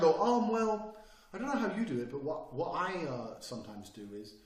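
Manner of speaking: mock timid speaker. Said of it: "it's just bullshit".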